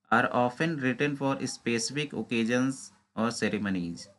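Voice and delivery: slow, deliberate reading of an exam question. Acted. Teacher reading a quiz question to exam students, slow and deliberate. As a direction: read each word out carefully, like dictation.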